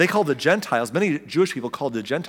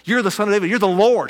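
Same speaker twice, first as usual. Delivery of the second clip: fervent declaration; 5 semitones higher, 5 dB louder than usual. Retold or imitated. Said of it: "and she says".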